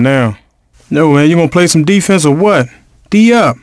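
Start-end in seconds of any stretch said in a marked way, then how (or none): 3.1-3.6 short yell. Acted. Yelling at teammates on court.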